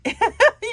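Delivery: high, loud giggle burst; burst of laughter. Real, not acted. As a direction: laugh at your own joke. Laughs at her Eeyore joke.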